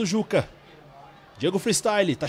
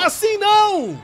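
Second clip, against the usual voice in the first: slow, high anguished yell; shouting in dismay; 10 semitones higher, 4 dB louder, slower than usual. Real, not acted. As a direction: drag it out in disbelief. (grito de incredulidade)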